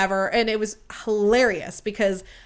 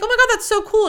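very high, louder squeal; gushing excitement; 12 semitones higher, 5 dB louder, faster than usual. Retold or imitated. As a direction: squeal like a delighted fan. Gushing over his D&D hobby.

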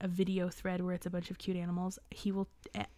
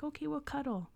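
higher, sweet little quote of younger self; cuddly child self; 7 semitones higher than usual. Retold or imitated. Child who couldn't sleep talking to the bird, cuddly. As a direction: gently invite a pet to cuddle, pitched up.

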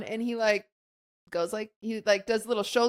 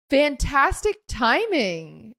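slow mock delight; 3 semitones higher, much slower than usual. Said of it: "And he was like".

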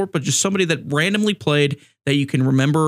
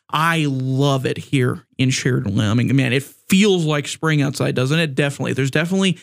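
deadpan sarcasm about the snow; sarcastic. Real, not acted. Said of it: "This is all sarcasm".

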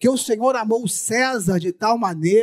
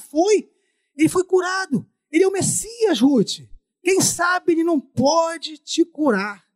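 high, eager, rising to a shout; excited urging; 7 semitones higher than usual. Acted. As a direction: urge her on with growing excitement. Neighbor urges Ruth.

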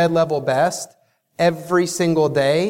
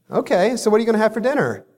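bored brush-off; 5 semitones higher, much faster than usual. Retold or imitated. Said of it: "on the other end goes".

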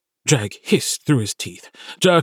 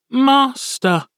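small familiar's call; 13 semitones higher than usual. Acted. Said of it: "Sammy's voice echoed through the crack".

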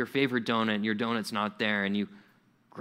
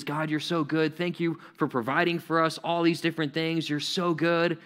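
higher, even-pitched praise to God; worshipful praise; 3 semitones higher than usual. Acted. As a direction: act out a churchgoer praising God. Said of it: "praising God maybe in the worship services".

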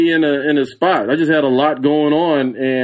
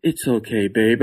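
soothing wife; 3 semitones lower, 3 dB quieter than usual. Retold or imitated. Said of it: "She goes".

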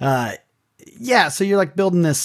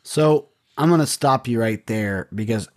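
rough, worn-out voice after screaming; hoarse throat from yelling at a game. Real, not acted. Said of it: "I have no voice. My throat's a little bit rough".

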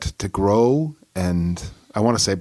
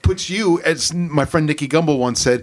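raised voice; 5 semitones higher than usual. Real, not acted. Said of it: "I don't know why I'm yelling".

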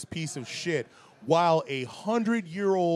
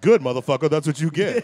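louder, open told-you-so cheer; gleeful gloat; 7 dB louder, faster than usual. Retold or imitated. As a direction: shout the gloat out with relish. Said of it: "the people that are like".

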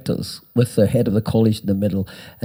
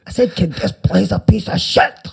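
higher, louder, exasperated repeat; repeated louder verdict; 8 semitones higher than usual. Retold or imitated. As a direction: say it again, fed up that he didn't hear. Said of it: "And he said".

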